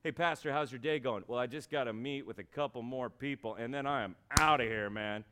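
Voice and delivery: casual mock pastor eager to knock off; a hint of a checked-out employee; uncommitted pastor. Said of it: "imagine if pastors were like that".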